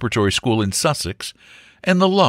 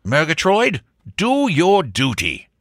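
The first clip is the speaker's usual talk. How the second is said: higher, drawn-out lordly order; commanding baronet; 7 semitones higher than usual. Acted. Sir Jasper orders Murgatroyd to act, commanding. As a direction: give the butler a weighty command.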